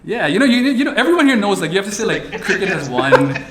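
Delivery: pretending to be neutral beside the CEO, laughing; mock poised diplomat. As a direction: put on a sophisticated calm front. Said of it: "I had to be all, like, poised".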